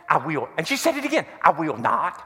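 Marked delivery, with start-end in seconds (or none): 0.1-0.5 lower, mock-stubborn southern drawl; defiant southern accent. Father imitates little daughter's answer, defiant southern accent. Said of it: "in this little southern accent". 1.4-2.2 little southern drawl, lower and stubborn; defiant southern accent. Retold or imitated. Father imitates little daughter refusing to come out, defiant southern accent.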